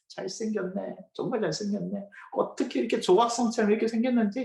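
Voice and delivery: imitated marvelling at good looks; admiring exclamation. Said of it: "감탄사가 나와요". (감탄하는 흉내)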